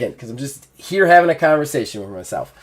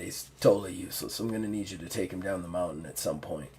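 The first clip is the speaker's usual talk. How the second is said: lightly voiced gruff orc, pitched down; 5 semitones lower than usual. Orc reporting on a useless hunter, lightly gruff. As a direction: grumble like a gruff orc sizing someone up. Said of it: "You hear the gruff, uh, orc's voice".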